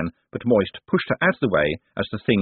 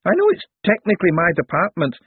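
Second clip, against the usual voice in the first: lightly voiced old wizard, higher pitched; a kindly old academic wizard, pitched up; elderly wizard; 8 semitones higher than usual. Elderly wizard greeting the visitors, higher voice.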